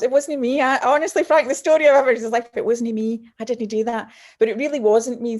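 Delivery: high, loud protest of innocence; mock protest. Protesting to the interviewer that she got barred unfairly, mock indignant.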